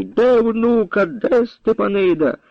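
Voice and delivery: high, slow, menacing questions; threatening demand. A narrator's reading. Captain grips the old woman, menacingly demanding the girl. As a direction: grab her and drag the answer out.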